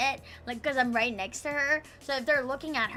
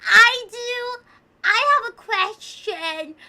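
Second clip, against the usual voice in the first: mocking eager classmate; 8 semitones higher, 8 dB louder, slower than usual. Mocking eager classmate raising hand.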